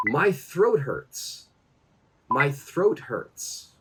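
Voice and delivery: slow, careful lesson example; slow model phrase. Shown as a demonstration. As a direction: give learners time on each word. Teacher models phrase for learners.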